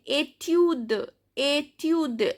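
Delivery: slow, careful "étude" ending on the d; "étude" as a teacher's model; silent final S. Shown as a demonstration. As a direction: say "étude" with no S at the end. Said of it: "S is silent".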